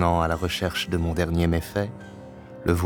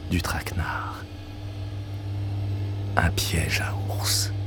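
whispered narration; slower than usual. A narrator's reading. Narrator whispers the bear trap.

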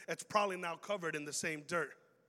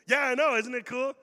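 proud chirp; 3 semitones higher, 10 dB louder than usual. Pretend. Churchgoer proud of Christian friend.

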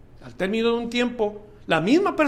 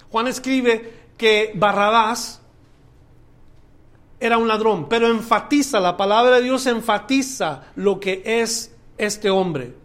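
louder, rising preacher's cry listing the miracles; fiery preaching; 4 semitones higher, 6 dB louder than usual. Acted. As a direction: preach it out, building with each deed. Preacher builds to full force.

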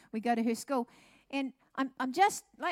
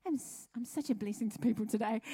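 laughing at herself mid-sentence. Real, not acted. The speaker laughing at her own boast to the church. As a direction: giggle through the self-praise.

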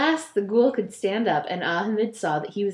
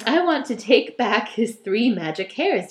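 bold. Acted. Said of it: "declared Ahmed boldly".

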